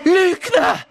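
high, loud outraged yell; furious shout. A narrator's reading. Harry suddenly shouts at Voldemort, furious. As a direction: hurl the word at him. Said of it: "rief Harry plötzlich".

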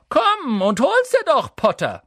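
high, loud drawn-out taunt; slow, jeering long-distance call. A narrator's reading. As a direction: shout a dare down from a treetop. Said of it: "herab rief er".

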